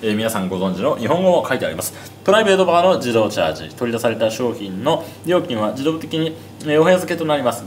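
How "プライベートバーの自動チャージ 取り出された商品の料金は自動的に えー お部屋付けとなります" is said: mock announcement voice; reading the label. Shown as a demonstration. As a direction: read it out like a hotel notice. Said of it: "と書いてありますが". (案内表示を読み上げる声)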